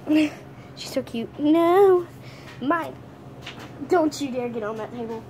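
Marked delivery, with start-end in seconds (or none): 1.4-2.9 firm no. Real, not acted. Guarding toy.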